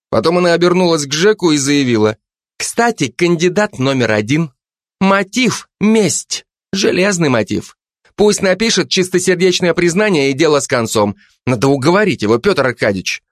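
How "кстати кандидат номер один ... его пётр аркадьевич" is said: higher, pushy detective woman; Zhanna's voice. Acted. Жанна давит на Кулебяку, напористо и выше. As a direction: lean on him, mock-polite and suspicious.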